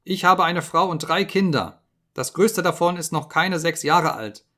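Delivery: high, loud panicked begging; desperate pleading scream. Acted. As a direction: plead for your life, voice cracking upward. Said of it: "schrie er".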